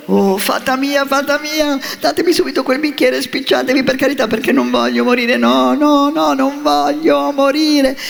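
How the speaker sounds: supplica disperata, acuta e sempre più forte; frantic pleading puppet. A narrator's reading. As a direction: implora la fata per non morire. Puppet begs fairy, fears death. (Pinocchio terrorizzato supplica la fata)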